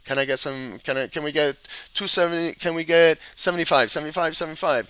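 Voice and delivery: quick, lightly voiced auction call; playful hint of an auctioneer's patter. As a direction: rattle off bids like a mock auctioneer. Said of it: "just like I'm an auctioneer".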